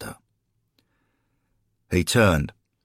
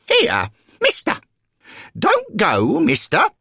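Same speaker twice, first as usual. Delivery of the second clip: put-on high, loud call from an elderly lady; 6 dB louder than usual. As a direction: call after someone to stop them leaving. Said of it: "a different voice calling out from behind him".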